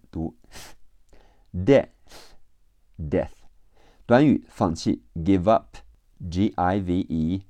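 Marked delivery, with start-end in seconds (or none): 1.5-3.3 "death" ending in pure breath, tongue between the teeth; teaching "death", final th breathed without voice; voiceless th. Shown as a demonstration. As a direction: say "death" with an airy, voiceless th at the end. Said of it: "只出气不出声".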